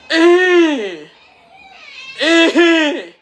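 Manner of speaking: two loud, high "eh" cries; mock squeal. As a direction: squeal it out twice, drawn long. Imitated squeals in retold film.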